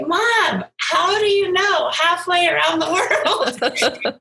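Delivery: retold amazement breaking into a laugh; amazed daughter. Voices daughter's amazed reply.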